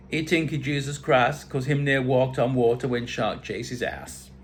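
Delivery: put-on islander banter; badly faked Caribbean storytelling; bad Caribbean accent. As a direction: tease in a mock Caribbean accent. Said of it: "Bad accent".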